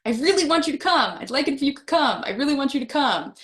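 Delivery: a keen host begging friends to come; eager invitation. Shown as a demonstration. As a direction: gush the invite with real enthusiasm. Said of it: "what gave it away that, yes, I would like you to come".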